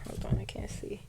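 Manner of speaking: real whisper to oneself; whispered aside. Real, not acted. Reader struggling to see the notes, whispered aside. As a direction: drop to a barely voiced aside.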